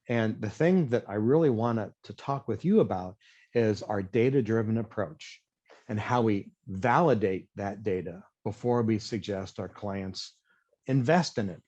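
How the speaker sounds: toned-down, deliberate consultant delivery; slowed analytical cadence. Shown as a demonstration. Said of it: "I slow my cadence and I start talking in analytical terms".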